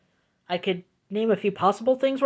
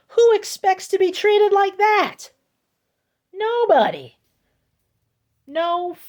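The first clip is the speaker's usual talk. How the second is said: high, loud disbelief; indignant outrage; 11 semitones higher, 3 dB louder than usual. Real, not acted. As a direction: demand it, higher and louder.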